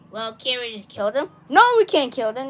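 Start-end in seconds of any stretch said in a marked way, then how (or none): 1.5-2.5 louder scolding refusal; firm, mildly yelled objection. Acted. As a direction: snap back with a raised voice. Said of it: "I didn't mean to yell at you".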